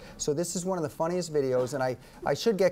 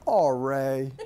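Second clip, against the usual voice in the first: mild, patient sigh of a name; a big dad going easy on his son; gentle dad; 5 semitones lower than usual. Retold or imitated. Imitating the dad finding his son making havoc, mildly gentle. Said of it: "And he goes like this".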